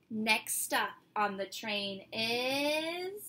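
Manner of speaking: slow, drawn-out train announcer; subway announcer. Pretend. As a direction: call out the next stop like a conductor.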